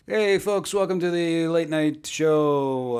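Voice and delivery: mock talk show host opening; lightly hammed-up host welcome; late night host. Host greeting the audience, lightly hammed-up announcer. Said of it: "I am going to try and deliver these jokes as best as I can".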